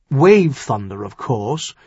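mildly impatient answer; a bit impatient. Acted. Earl names who knows to his son-in-law, a bit impatient. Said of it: "said a bit impatiently".

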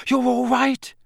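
high, anxious question; distracted mother. A narrator's reading. Mother checking on her husband, high and anxious. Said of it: "Missus Weasley muttered distractedly".

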